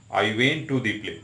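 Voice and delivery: I went to the play said very slowly, the added "the" kept clear; slow, with the article. Shown as a demonstration. Teacher showing students that the article changes the meaning, slowly. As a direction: stretch out I went to the play so the "the" stands out. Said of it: "मतलब मैं drama देखने theatre गया".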